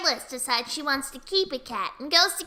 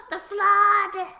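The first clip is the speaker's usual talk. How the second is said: gasp, then a louder mock cry; hammed-up gasping alarm; 3 semitones higher, 5 dB louder than usual. Adventurers run out and see the flood, mock alarm. Retold party sees the flood.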